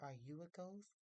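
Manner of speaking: lightly acted girl's question, rising at the end; a hint of a wondering girl; Mary, lightly voiced. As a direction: ask it curiously with a lifted "ghost". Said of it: "she said".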